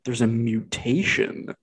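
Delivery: slow, drawn-out mock reveal; slow, teasing delivery of a plot twist; dramatic reenactment. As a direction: imitate a big reveal, stretching the words. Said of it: "my reenactment of how he says it".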